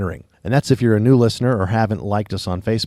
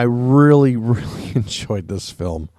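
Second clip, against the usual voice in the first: laughing. Real, not acted.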